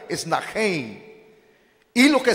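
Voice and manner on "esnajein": "esnajein" with the ending run together as -jein; more correct pronunciation. Shown as a demonstration. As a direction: softly demonstrate "esnajein" as three syllables, es-na-jein. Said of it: "la pronunciación más correcta".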